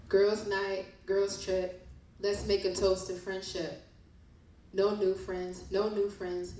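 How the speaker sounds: rhythmic spoken-word reading; poem reading. Acted. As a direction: read it like a poem about fake friends. Reads poem from book.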